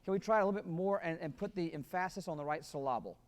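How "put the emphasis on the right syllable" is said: "emphasis" as em-FASS-is, "syllable" as sil-LAH-ble; joking misplaced stress. Shown as a demonstration. Director joking with the band, wrongly placed stress on "emphasis" and "syllable". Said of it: "They'll understand the joke later".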